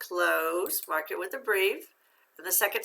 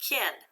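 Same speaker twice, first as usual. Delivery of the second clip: "Kin" as one isolated syllable; a separate, stand-alone "Kin"; syllable read-out. Shown as a demonstration. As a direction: sound out "Kin" on its own. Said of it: "Let's read the second syllable".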